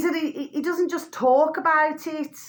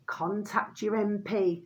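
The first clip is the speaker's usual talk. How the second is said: mock parroting; 3 semitones lower, 6 dB quieter than usual. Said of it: "All you hear".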